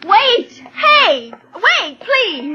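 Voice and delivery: high, loud call after someone leaving; woman calling out to the store clerk, high and loud. Acted. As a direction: shout to stop the clerk before he locks up. Running to a closing store.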